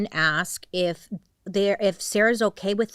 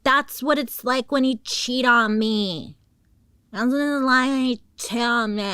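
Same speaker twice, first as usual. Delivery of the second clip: put-on drunk taunt; 6 semitones higher, 5 dB louder than usual. Drunk girlfriend taunting the trapped man about cheating. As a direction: spit it at him like a drunk scorned lover. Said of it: "She's like".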